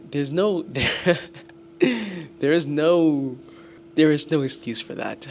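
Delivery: loud, laughing self-reproach; self-scolding outburst. Real, not acted. Student berating himself over a bad grade, loud self-scolding.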